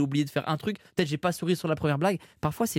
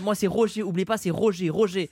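mock stage sign-off; 4 semitones higher than usual. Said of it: "un prénom improbable en stand-up".

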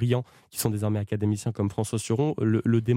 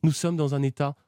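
small voice; 4 semitones higher than usual. Acted. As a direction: put on a light little voice to grab attention. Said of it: "Pourquoi vous prenez cette petite voix".

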